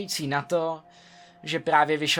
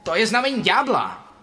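higher, louder panicked cry; a boyfriend spooked by a devil omen; alarmed shout; 6 semitones higher, 5 dB louder than usual. Acted. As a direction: sound the alarm about the devil. Boyfriend panics about devil number.

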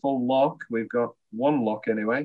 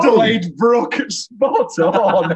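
high, loud delighted cheer; excited; 10 semitones higher, 8 dB louder, much slower than usual. Real, not acted. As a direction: celebrate the right answer. Excited congratulation of correct answer.

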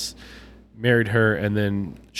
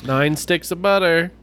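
Paula Deen impression; 5 semitones higher, 3 dB louder, slower than usual. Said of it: "her cookbooks are like".

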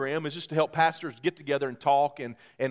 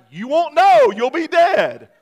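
laughing reply; 12 semitones higher, 12 dB louder, slower than usual. Retold or imitated. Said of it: "I'm like".

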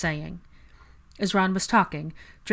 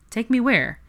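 sharply rising, louder question; startled, wanting to know; surprised question; 6 semitones higher, 5 dB louder than usual. A narrator's reading. Draco puzzled, repeating.

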